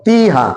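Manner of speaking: तीहा with ती held two counts; two-count stretch. Shown as a demonstration. Teacher shows when ती would stretch, तीहा with long ती. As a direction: lengthen the ती in तीहा, falling after. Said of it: "आप खींचेंगे दो count".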